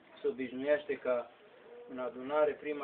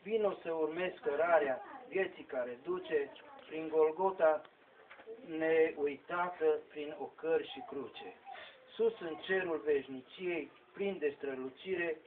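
solemn verse declaimed in measured phrases; poem recitation; 2 semitones higher than usual. Acted. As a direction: declaim sacred poetry, pausing between the lines. Recites a devotional poem to its end.

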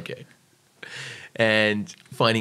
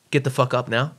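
raised, pushy wake-up order; human alarm clock; 4 semitones higher, 4 dB louder than usual. Shown as a demonstration. Camp leader acting as someone's alarm clock, pushy. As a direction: order them up, pitched a little high. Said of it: "your alarm clock doesn't sound like me".

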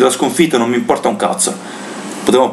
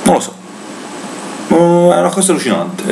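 exasperated rant, pitch raised high; disbelieving fan venting in anger; explosive italian cursing; 4 semitones higher than usual. Real, not acted. Exasperated rant about humiliation.

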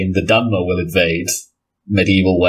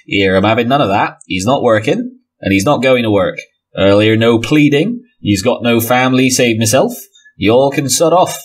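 voice behind door; 2 semitones higher than usual. Acted. Game master as sleeping partner refusing visitors, lightly voiced dismissive role. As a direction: play an unwilling gatekeeper turning visitors away. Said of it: "The voice from behind the door continues".

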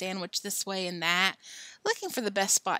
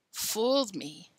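croaked; slower than usual. Acted. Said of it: "croaked Billy".

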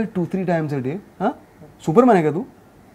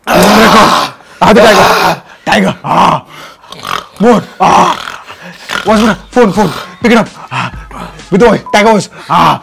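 loud panicked yelling; 2 semitones lower, 6 dB louder than usual. Real, not acted. Loud yelling at tiger in game.

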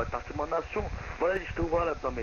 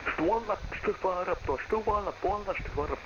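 voice changer; 3 semitones higher, 7 dB louder than usual. Acted. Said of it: "ça sert à rien d'utiliser des modificateurs de voix".

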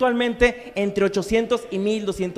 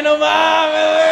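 stoner voice; 7 semitones higher, 6 dB louder, slower than usual. Retold or imitated. Stoner reaction impression.

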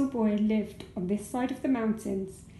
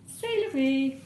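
French; 3 semitones higher, slower than usual. A narrator's reading. French ending quip.

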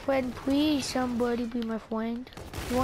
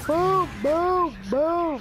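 loud, higher booms; excited boom; 4 semitones higher, 4 dB louder, much slower than usual. Real, not acted. Gamer shooting enemies, gleeful loud booms. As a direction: fire them off gleefully. Celebrating shots in game.

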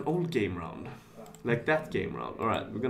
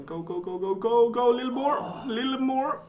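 cheering it on, building; 11 semitones higher than usual. Real, not acted. Cheering the roulette ball on.

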